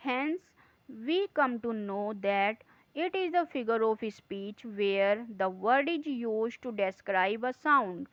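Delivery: slow, deliberate read-aloud of the note; slow dictation reading. Acted. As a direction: read each word out slowly for the class. Reads the textbook note aloud. (धीमी, ठहर-ठहर कर पढ़ाई)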